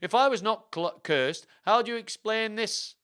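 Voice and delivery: high, loud theatrical challenge; indignant royal demand; accusing king. Acted. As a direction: confront him with the damning proof. King confronts Hastings with arm.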